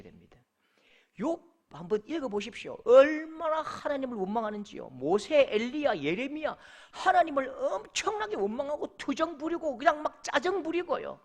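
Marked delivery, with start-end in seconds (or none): none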